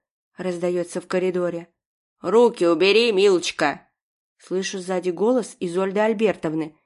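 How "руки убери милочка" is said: loud, bossy snap at the nurse; stern old lady barking an order; sharp command. Acted. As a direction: order her hands off, imperiously. Grandma snaps at nurse.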